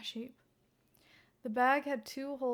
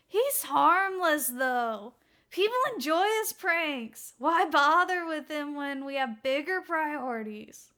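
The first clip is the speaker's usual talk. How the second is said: casual colleague; 4 semitones higher, 8 dB louder than usual. Acted. Colleague dismissing, higher louder.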